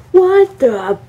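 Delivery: loud, high shocked what the; angry outburst. Retold or imitated. Dad hearing the windshield is broken, yelling. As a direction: blurt it out in anger.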